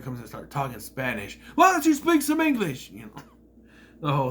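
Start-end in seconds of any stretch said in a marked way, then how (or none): 1.5-2.9 high, loud mock taunt; higher, louder imitation of a bully; mocking sneer. Imitating JBL mocking Mysterio.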